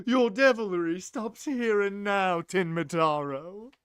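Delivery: grand, showy challenge to a foe; flamboyant voice. Acted. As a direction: declare it with a theatrical flourish. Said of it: "flamboyant voice".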